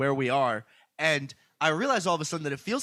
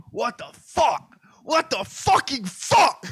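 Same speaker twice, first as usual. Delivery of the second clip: slow, rising, higher and louder disbelief; incredulous outburst; 10 semitones higher, 4 dB louder, slower than usual. Retold or imitated. Retelling a panicked seatmate's slow disbelieving outburst. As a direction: stretch it out like a stunned passenger. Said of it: "the guy on the side of me is going".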